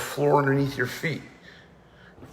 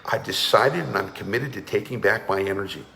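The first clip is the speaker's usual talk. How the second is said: committed declaration; 4 semitones lower than usual. Shown as a demonstration. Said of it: "you notice the energy?".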